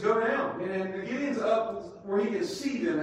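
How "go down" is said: short firm order; a touch of a commanding God. Acted. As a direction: tell him plainly to go down. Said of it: "Looks at Gideon and says".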